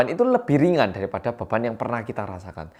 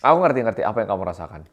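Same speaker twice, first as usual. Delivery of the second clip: impatient brush-off; 2 semitones lower, faster than usual. Shown as a demonstration. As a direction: cut them off, hurry it along. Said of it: "Ini serasa kayak". (nada tidak sabar dan meremehkan)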